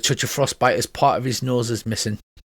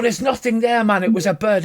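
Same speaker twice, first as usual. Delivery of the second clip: raised pitch, acted impatience; mildly hammed-up exasperated dwarf; exasperated reassurance; 10 semitones higher than usual. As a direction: brush off a brother's fear. Brother dismisses Stone's fear.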